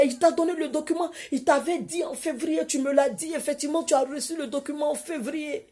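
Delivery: high, loud, laughing amazement; ecstatic shouting. Retold or imitated. Colleague shouting to Emma that Jesus is real, overjoyed. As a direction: cry out in overwhelmed joy. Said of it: "Elle a crié".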